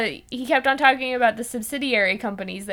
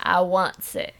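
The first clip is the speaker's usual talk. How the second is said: hammed-up Texan twang; Texan accent; 3 semitones lower, slower than usual. Co-host plays the evil oil baron, mock Texan accent. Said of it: "I don't know why he became Texan".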